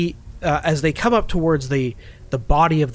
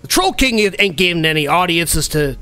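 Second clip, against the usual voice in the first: troll snapping. Acted. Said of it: "the other says".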